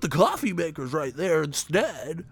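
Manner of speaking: high, mocking nagging voice; mock busybody. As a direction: lightly voice a know-it-all telling you where things go. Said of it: "these dudes".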